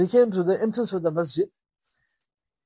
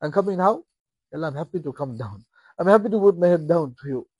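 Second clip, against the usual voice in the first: joyful prayer. Shown as a demonstration.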